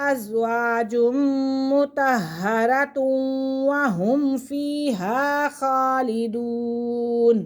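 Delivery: drawn-out, measured recitation to the verse's end; teacher finishing the verse; slow recitation. Shown as a demonstration. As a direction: recite the close of the verse slowly. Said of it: "teacher recites verse ending".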